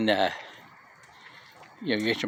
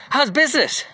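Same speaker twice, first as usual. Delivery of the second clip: bright, much higher and chirpy; young salesman's question; 11 semitones higher, 3 dB louder than usual. Retold or imitated. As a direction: toss it off like an eager young caller. Young guy calling, retold.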